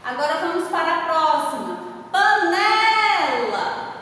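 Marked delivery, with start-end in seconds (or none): 2.1-3.9 "panela" stretched, NE held high and strong; stress on NE. Shown as a demonstration. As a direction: make the middle syllable of "panela" stand out, long and high. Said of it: "o né se destaca". ("panela" com o NE bem forte, alto e alongado)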